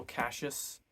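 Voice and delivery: Cassius said with a "sh": KASH-us; fourth-book pronunciation. Shown as a demonstration. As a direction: say Cassius in two syllables, KASH-us. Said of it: "in the fourth book it becomes Cassius".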